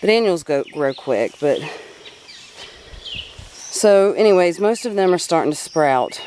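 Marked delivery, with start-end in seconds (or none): 3.7-6.2 short of breath while talking; out of breath from gardening. Real, not acted. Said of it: "I'm sorry, I'm out of breath".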